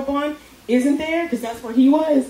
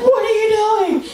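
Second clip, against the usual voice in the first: higher, louder alarmed question; panicked shout; 8 semitones higher, 4 dB louder than usual. Retold or imitated. Doctor to the nurse slamming the patient, higher louder shout. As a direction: yell it over the commotion. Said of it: "It's like".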